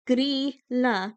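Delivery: Grýla said as GREE-la with a rolled r; Grýla, careful native pronunciation; correct Icelandic. Shown as a demonstration. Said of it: "That's how you say it".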